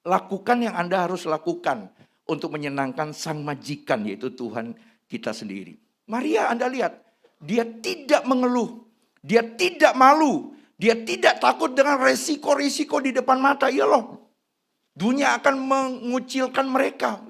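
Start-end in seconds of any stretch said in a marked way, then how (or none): 6.1-17.2 high, loud sermon climax; impassioned preacher about Mary; fiery preaching. Acted. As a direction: preach it with rising fire. Preaching at full force.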